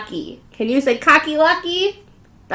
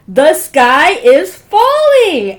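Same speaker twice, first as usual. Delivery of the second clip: panicked wail; 5 semitones higher, 10 dB louder, much slower than usual. Acted. Chicken Little panics.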